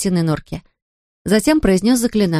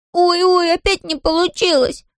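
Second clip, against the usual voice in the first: dismayed cry; 9 semitones higher than usual. A narrator's reading. Bertel's spell fails once more, high cry. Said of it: "закричал он".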